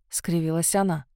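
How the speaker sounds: ordinary delivery, nothing marked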